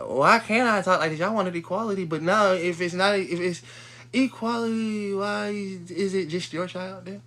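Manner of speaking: protesting in an acted-out argument; indignant challenge. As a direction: argue it high, drawing out the key words. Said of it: "I should be the one to be like".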